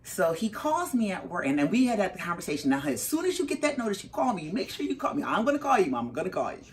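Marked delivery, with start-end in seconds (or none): 2.7-6.6 higher, pressing motherly urging; retold insistent instruction, pitched up; urgent insistence. Mother drilling her son to call her, insistent.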